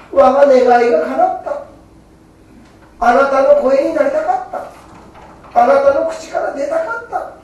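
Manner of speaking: a hint of the Buddha's gladness; Amida Buddha rejoicing. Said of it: "阿弥陀様が".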